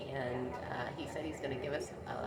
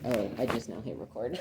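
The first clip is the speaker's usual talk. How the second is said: laughing shout; 9 dB louder than usual. Real, not acted. Realizes recording just started.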